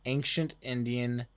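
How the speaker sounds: slow, loud deadpan announcement; mock solemn slogan, drawn out; reading a joke shirt. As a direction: read it out slowly like a proclamation. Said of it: "that is a joke".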